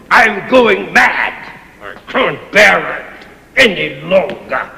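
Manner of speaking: anguished lament, slowing on going mad; distraught outburst. Acted. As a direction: break down complaining. Master breaking down, distraught.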